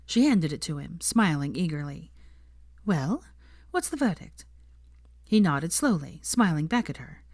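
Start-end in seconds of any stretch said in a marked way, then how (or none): 2.9-4.4 put-on higher, eager girl's voice; eager Hermione. A narrator's reading. Hermione eagerly asks Draco about the food, higher voice. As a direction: ask him eagerly, leaning in.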